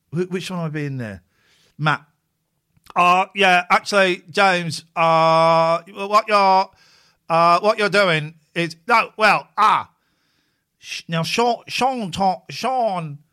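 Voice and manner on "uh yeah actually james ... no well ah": hemming and hawing, louder; loud mock game show guy. Host mocking the milk race contestants, loud dithering. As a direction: bluster through the ums and actuallys. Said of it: "That's how they talk".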